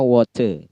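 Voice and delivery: water with the final R dropped; British silent R. Shown as a demonstration. Example of a silent R for British, water without its R. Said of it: "tidak dibaca untuk British".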